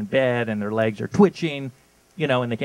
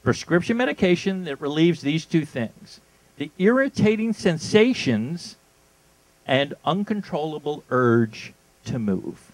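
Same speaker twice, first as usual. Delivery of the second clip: ad read. Shown as a demonstration. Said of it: "I'm gonna read it to you now".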